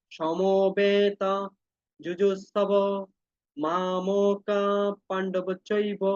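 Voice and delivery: very slow, measured verse reading; shloka recitation. Shown as a demonstration. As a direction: recite each word slowly for students. Reads verse aloud for class. (ধীরে শ্লোক আবৃত্তি)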